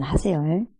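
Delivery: ordinary talk, nothing marked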